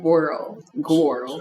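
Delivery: put-on "Girl." drawn out with a w glide, like gworl; slangy gworl for "Girl."; playful gworl. Shown as a demonstration. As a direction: say "Girl." as gworl, rounded and stretched. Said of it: "G W O R L".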